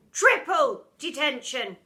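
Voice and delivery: loud, slow, laughing verdict; gloating teacher. Acted. Miss Seeth punishing pupil, gloating. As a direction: relish the bigger number.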